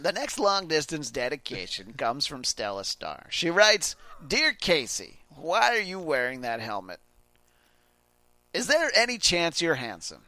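radio host reading a listener's letter; Casey Kasem. Acted. Host reading Stella's long-distance dedication, impression. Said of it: "I'm Casey Kasem".

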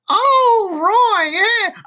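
put-on high, loud, quavering old woman; confused old grandma. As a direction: play a confused granny. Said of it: "just look at you and go".

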